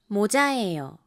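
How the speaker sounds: 모자예요 with 모 low and 자 rising high; low-high tune. Shown as a demonstration. Teacher modelling the tune for learners, low then high. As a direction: drop on 모, lift on 자. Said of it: "一番目のもは低く、二番目のチャーは高く".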